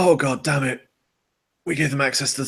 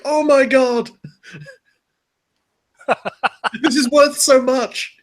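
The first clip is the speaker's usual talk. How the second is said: put-on excited kid voice; 11 semitones higher, 4 dB louder, slower than usual. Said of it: "a six or seven-year-old Corpus kid is like".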